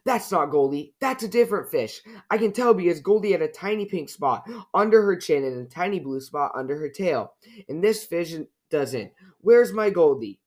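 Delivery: put-on upset child's protest, rising in pitch; building to an urgent, high demand; sudden cry. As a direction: protest with mounting alarm, ending high and loud. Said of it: "Then suddenly Sister cried".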